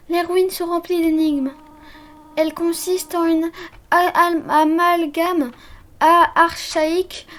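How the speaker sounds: gentle motherly voice. Acted. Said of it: "je vais lui donner une autre voix".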